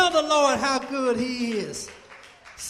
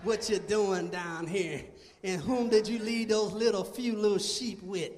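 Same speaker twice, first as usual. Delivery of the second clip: much lower, sneering put-down voice; negative older brother; 7 semitones lower, 6 dB quieter than usual. Acted. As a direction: belittle him like a jealous big brother. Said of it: "being all negative".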